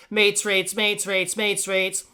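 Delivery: mates rates rattled off three times; tongue-twister showing off. Shown as a demonstration. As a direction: repeat it like a quick tongue-twister challenge. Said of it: "mates rates three times fast".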